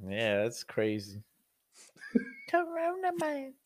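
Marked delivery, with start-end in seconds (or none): 2.1-3.5 laughing. Real, not acted. Laughing recap.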